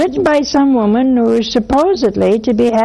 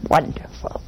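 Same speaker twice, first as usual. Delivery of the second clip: whispered sarcasm; 8 semitones lower, 8 dB quieter than usual. Retold or imitated. Mother's dry reply.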